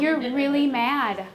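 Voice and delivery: slow, even reflection of feeling; name the feeling slowly and calmly; slow calm empathy; calm naming. Shown as a demonstration. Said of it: "then I can say".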